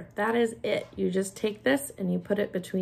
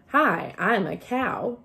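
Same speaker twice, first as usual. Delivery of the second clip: plain; 2 semitones higher, slower than usual. Shown as a demonstration. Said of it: "So if you say".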